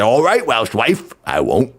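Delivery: badly faked Welsh storyteller; loose, joking Welsh accent; mock Welsh accent. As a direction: tell the yarn in a put-on Welsh lilt. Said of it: "Do your best Welsh accent".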